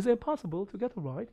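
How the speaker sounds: slow, lightly British Is it possible to get a ride; strong T in get a ride, mild British; imitating British. Shown as a demonstration. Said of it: "T 발음 약간 세게 발음해서 get a ride".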